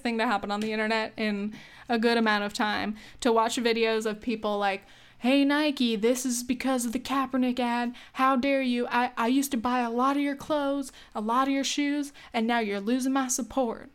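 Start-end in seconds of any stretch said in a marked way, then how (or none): 5.2-13.9 put-on stereotypical Southern accent. Angry boycotter scolding Nike, mock Southern accent. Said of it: "I'm sorry for the accent".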